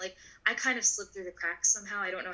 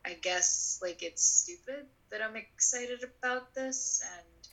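ashamed inner voice; slower than usual. Retold or imitated. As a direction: shrink into yourself, drawn out. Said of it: "I felt like".

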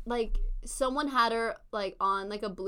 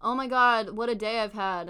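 mock ad read; 6 dB louder than usual. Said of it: "We'll be like".

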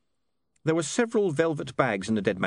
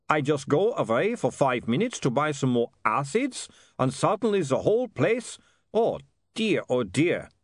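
dismayed Otto; 4 semitones higher than usual. Acted. Otto voiced, dismayed at wreckage.

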